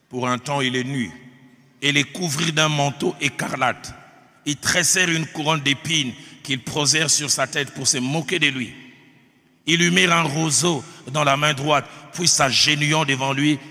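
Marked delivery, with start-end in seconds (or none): 1.8-13.6 emphatic, deliberate pulpit reading; Scripture reading. Acted. Preacher reading the Passion to his congregation, emphatic Scripture reading. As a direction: read it out firmly to the congregation.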